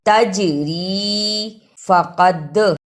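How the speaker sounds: "तजरी" and "फकद" with echoing bounce on ज and द; a short released echo after ज in "तजरी", द in "फकद"; qalqala bounce. Shown as a demonstration. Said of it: "इन हरूफ को हिलाकर पढ़ना".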